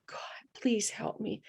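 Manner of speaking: slow, urgent whispered prayer; retold prayer in a strong whisper; loud whisper. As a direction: whisper a plea to God, slowly. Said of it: "like a loud whisper".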